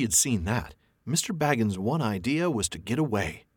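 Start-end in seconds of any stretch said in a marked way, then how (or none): none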